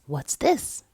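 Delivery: put-on boy whispering at the tree; curious whisper. A narrator's reading. Boy asks about ornament.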